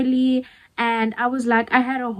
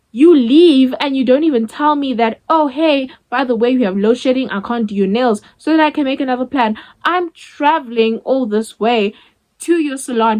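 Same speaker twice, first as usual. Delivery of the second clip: indignant rant; 4 dB louder than usual. Retold or imitated. Ranting at the salon owner.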